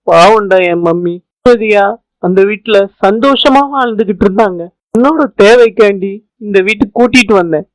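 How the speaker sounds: mildly tearful son pleading; acted tearful. Son tells his friend his mother is jailed, mildly tearful. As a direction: lament for your mother with a touch of tears. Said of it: "Gopi, please அழாதடா".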